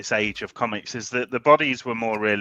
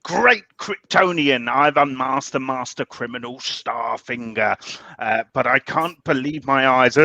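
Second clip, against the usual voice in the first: Grey Man impression. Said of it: "That's my Grey Man impression".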